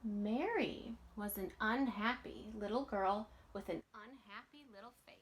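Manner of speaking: put-on lively read-aloud voice for children; storybook reading. A narrator's reading. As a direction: read it like a bedtime picture book. Reading picture book aloud.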